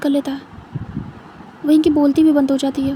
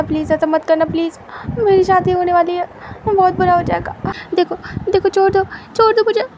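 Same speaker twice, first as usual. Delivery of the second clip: higher and louder, frantic begging; frightened begging; 4 semitones higher, 3 dB louder than usual. Acted. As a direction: beg faster and faster as panic rises. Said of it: "wing चिल्ला रहा था".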